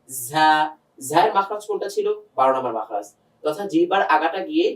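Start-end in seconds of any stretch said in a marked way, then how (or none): 0.1-0.5 ঝা as a long buzzing Arabic za; articulated za. Shown as a demonstration. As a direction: draw out ঝা with a z sound. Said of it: "মাখরাজের দিকে চলে যাব". (ঝা টেনে আরবি যা-র উচ্চারণে)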